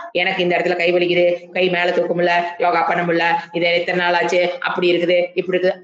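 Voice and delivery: mild complaining to the doctor; complaining patient. Retold or imitated. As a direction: recite symptoms to the doctor. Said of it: "அது external dialogue".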